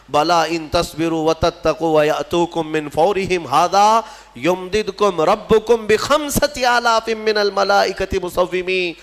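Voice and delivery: Arabic verse chant, rising and drawn out; Quran recitation. Acted. Preacher quotes God's promise to the congregation, reciting slowly. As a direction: recite it with long-held vowels, slowing midway.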